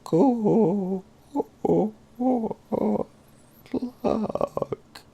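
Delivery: high loud robot voice. Acted. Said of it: "In the robot voice".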